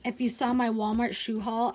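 ordinary talk

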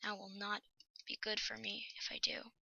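whispered under breath. Real, not acted. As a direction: hush it so the pigman won't hear. Tense whisper near zombie pigman.

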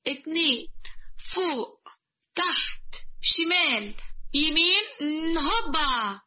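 slow, sing-song counting of moves; exercise count. Acted. Mother-in-law counts her morning workout, sing-song. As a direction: call out each exercise step, drawn out.

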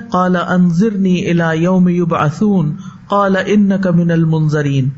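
slow, measured chanting of the verse; slow reverent recitation; Quranic recitation. Acted. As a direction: recite it like tajweed, unhurried.

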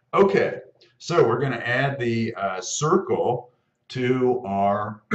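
husky, catching throat; frog in throat. Real, not acted. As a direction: talk past a tickle in the throat. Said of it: "I've got a little frog in my throat today".

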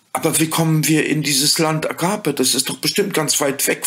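put-on high, bright-eyed child voice asking; lightly voiced startled child; curious children. A narrator's reading. Children asking the fairy, in a high child voice.

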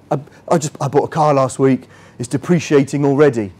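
lightly put-on voice of a proud new car owner; a hint of someone showing off a new car; car-buyer voice. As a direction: play a smug new car buyer telling a friend. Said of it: "I don't know why I'm doing that voice".

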